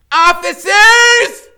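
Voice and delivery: high, loud, slow call to officers; high, drawn-out shout for help; shout to police. Acted. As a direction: hail the cops across the pond. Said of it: "Freak is shouting into the white light".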